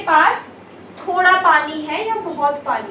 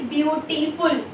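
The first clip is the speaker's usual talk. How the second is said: ब्यूटीफुल broken into beau, ti, ful; ब्यूटीफुल in three separate beats; split into syllables; 5 dB quieter than usual. Shown as a demonstration. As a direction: say ब्यूटीफुल syllable by syllable, as a teacher demonstrates. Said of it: "एक से ज्यादा syllable में बोलते हैं".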